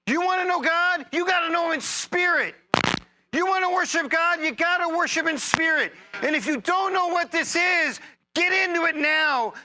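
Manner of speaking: rally the congregation with rising energy; energetic preacher lifting the room; getting energetic. Real, not acted. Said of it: "You notice I'm kinda getting energetic?".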